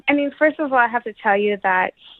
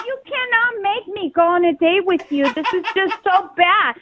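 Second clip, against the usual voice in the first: high-pitched protest; indignant, pleading against it; exasperated refusal; 7 semitones higher than usual. Real, not acted. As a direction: refuse in disbelief, voice pushed up high.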